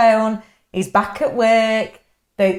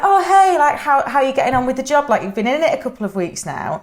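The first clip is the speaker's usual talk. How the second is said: excited self-quote; 6 semitones higher, faster than usual. Retold or imitated. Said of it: "And I was like".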